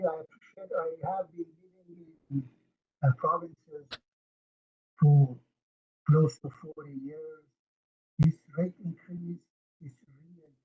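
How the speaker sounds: bad mic, voice dropping away; cutting out on a weak connection; fading in and out. Real, not acted. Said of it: "fading in and out".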